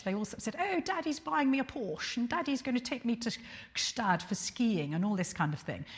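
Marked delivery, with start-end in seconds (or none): 0.6-4.9 posh Sloane Ranger. Retold or imitated. Mocking the posh students, a light put-on posh voice. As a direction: send up a posh girl bragging about Daddy, lightly. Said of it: "they all talked very posh".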